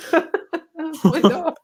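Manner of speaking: a drawn-out cartoon squeak, laughing; slow squeaky mock voice. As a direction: stretch it out high and silly. Repeating the impression.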